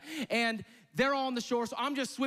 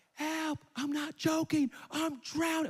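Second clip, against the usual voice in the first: screaming for help; 7 semitones higher, slower than usual. Retold or imitated. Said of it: "I'm screaming at the top of my lungs".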